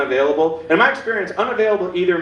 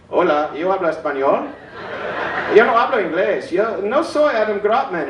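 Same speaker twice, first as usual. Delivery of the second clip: fake Spanish. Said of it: "pretend that I speak a different language".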